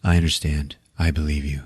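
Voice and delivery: low, soft retold reassurance; gentle reassurance. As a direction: lightly act out a sincere, understanding friend. Retold comforting of a friend.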